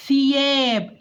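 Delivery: "ثياب" with a clear th as in think; tongue-out tha. Shown as a demonstration. Teacher models the word for spelling, interdental th in "ثياب". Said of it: "خرجت لساني".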